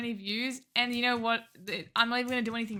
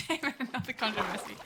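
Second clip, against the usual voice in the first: softer, quick aside of mock frustration; muted mock dismay; 6 dB quieter, faster than usual. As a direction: grumble it quickly under your voice. Mock dismay, first quieter take.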